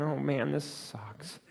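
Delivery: slow, quiet "Oh, man, this sucks." while crying; real tears, slow and soft; tearful. Real, not acted. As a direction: wipe the tears and mutter it slowly. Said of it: "I was doing exactly what I'm doing here".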